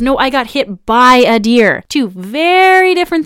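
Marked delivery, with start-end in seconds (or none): 0.0-1.8 "by" stressed, slow and louder. Retold or imitated. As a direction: correct him, leaning on "by". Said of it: "And she goes".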